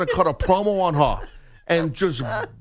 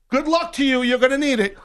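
put-on higher snide old lady; 7 semitones higher than usual. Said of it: "She says to my wife".

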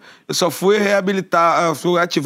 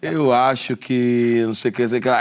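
long-winded voice message; 5 semitones lower than usual. Retold or imitated. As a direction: drag it out like a rambling voice note. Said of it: "longos, que tipo, e a pessoa já fala assim".

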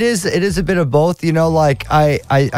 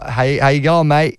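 Aussie accent. Shown as a demonstration. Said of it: "How good's your Aussie accent?".

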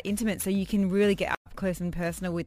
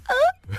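effort grunt; 6 dB louder than usual. Retold or imitated. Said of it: "I was like".

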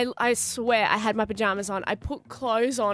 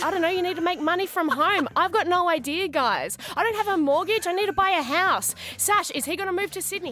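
mock panicked ranting, pitched up; racing thoughts; 4 semitones higher than usual. Retelling her head racing over job and house, flustered rant. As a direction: rattle out worries in a rising fluster. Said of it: "I'm racing in my head".

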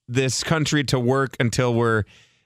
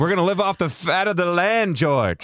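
quoting Lennie with light emphasis; a hint of Lennie dreaming of the farm; Of Mice and Men quote; 3 semitones higher than usual. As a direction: recite Lennie's dream line. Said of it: "pulling out that high school book reference".

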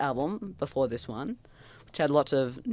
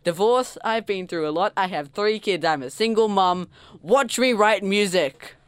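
lightly voiced star's boast, louder and raised; mock defiant singer; 4 semitones higher, 5 dB louder than usual.

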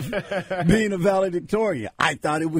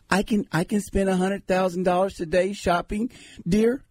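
higher, lightly voiced wife; mock wife; 4 semitones higher than usual. Wife tells husband about shopping, lightly voiced higher. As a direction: lightly play a spouse announcing a spree. Acted wife testing husband who must agree.

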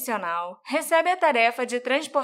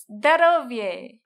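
put-on Russian accent; 5 dB louder, much slower than usual.

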